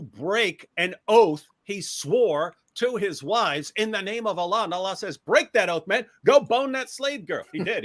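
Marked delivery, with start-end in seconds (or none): 5.2-7.4 mock casual god.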